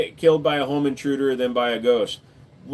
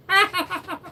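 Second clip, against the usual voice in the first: squeaky laugh. Pretend. High squeaky laugh in character.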